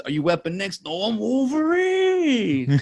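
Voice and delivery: imitated movie line, rising to a long high cry; mock-heroic, stretch the last words high; Hush. Fan quoting a berserker moment, hammed-up battle cry. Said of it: "then he even says".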